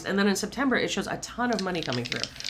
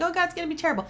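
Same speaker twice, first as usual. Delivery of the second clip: mock panic; 10 semitones higher, much faster than usual. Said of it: "people are freaking out, like".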